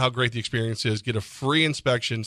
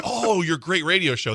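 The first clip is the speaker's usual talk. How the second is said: high, sarcastic, mock-flattering tone; 5 semitones higher than usual. Acting out a hypothetical remark from someone, in mock-sarcastic praise. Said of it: "that would be sarcastic".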